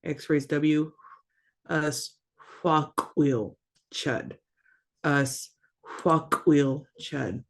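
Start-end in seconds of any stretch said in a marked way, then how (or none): 1.7-4.3 "fuck wheel chud" slowly, in separate pieces; careful sounded-out word. Shown as a demonstration. Teacher showing learners the raised W, slow and careful. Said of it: "You also got that". 5.0-7.4 slow "fuck wheel chud" with a gap after "Us"; careful sounded-out word. Shown as a demonstration. Teacher repeating the raised W word, slow and careful. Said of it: "You also got that".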